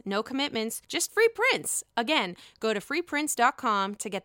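upbeat sponsor ad read. Acted. Host reading an ad to viewers, upbeat ad voice. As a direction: sell the app like a radio spot.

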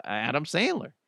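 ordinary talk, nothing marked

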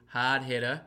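slightly put-on Boston accent. Host naming today's guest, light Boston accent. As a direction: drop the R's like a Bostonian. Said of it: "say that with the Boston accent".

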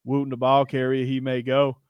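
imitated announcer who never breaks tone; unbroken monotone. Host mimics the stadium announcer's call, in one even tone. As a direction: keep it even, neither excited nor down. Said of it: "the announcer never broke tone".

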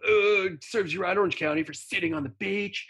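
smug local surfers. Retold or imitated. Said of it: "San Diego surfers all".

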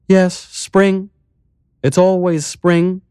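high, light mayor voice; lifted voice for the calm, strange mayor; village mayor. Acted. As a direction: play the eerily cheerful mayor.

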